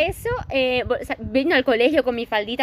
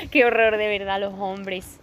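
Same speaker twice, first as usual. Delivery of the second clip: exasperated sigh; 3 semitones lower, slower than usual. Shown as a demonstration. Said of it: "Es que es una frase que digo mucho".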